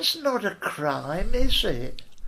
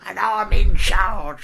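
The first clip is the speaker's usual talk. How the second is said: slow bossy declaration; 7 dB louder, slower than usual. Retold or imitated. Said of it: "she's gonna".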